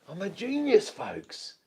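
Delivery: high-pitched voice. Real, not acted. Triumphant over the fix.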